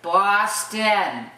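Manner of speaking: BOSTON in two clear beats, "Baah-stin"; local Boston pronunciation. Shown as a demonstration. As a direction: model BOSTON for learners with a broad ah. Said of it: "That's how we say Boston".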